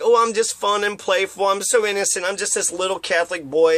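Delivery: put-on a touch of sweet innocent boy; mock innocent boy. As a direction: play coy like a good little boy. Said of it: "he pretends like he's this little Catholic boy".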